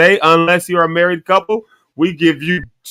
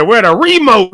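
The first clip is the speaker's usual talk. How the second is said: "remote" as REE-mote, higher-pitched; stress on RE; 6 semitones higher, 4 dB louder, slower than usual. Retold or imitated. Friend quotes how she mispronounced it, "remote" stressed on RE. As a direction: mimic her with the front of "remote" punched. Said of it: "She put the emphasis on re".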